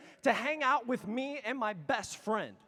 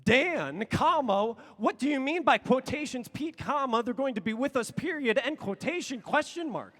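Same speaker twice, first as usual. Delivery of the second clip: louder, spelling out each comma; exasperated reading; 3 semitones higher, 4 dB louder than usual. Retold or imitated. Repeating his confused text back to his friend, exasperated and louder. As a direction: reread the message with rising impatience. Rereading own text, frustrated.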